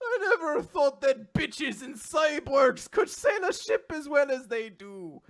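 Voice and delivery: high, slow hammy Irish shout; stereotypical Irish. Pretend. Captain retrying his compliment in loud stage Irish. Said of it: "a stereotypical Irish guy".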